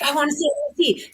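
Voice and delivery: put-on quick, high and eager, like a child; mock-excited inner voice; eager curiosity. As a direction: rush it out, dying to see. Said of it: "half of me is like".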